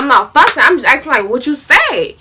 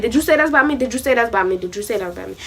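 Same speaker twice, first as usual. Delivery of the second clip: loop the question, fading down each time; steady asking; 6 dB quieter, much faster than usual. Retold or imitated. Asking the friend over and over, steady repeated questioning. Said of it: "I was steady asking".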